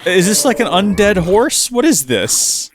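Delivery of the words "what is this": whisper. Real, not acted. Sees undead horse.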